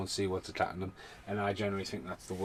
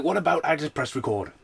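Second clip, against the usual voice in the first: mock exasperated; 7 semitones higher, 6 dB louder than usual. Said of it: "I'm like".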